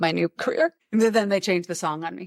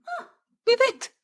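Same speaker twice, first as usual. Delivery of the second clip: sarcastic huh. Retold or imitated. Mocking reply to grandma.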